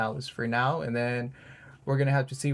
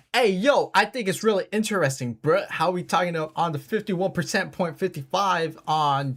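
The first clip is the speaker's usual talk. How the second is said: a hint of street slang, raised a little and louder; put-on street accent; 5 semitones higher, 3 dB louder than usual. Host mocking a street accent while reading vote percentages. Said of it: "I'm gonna do an accent I think we can all recognize".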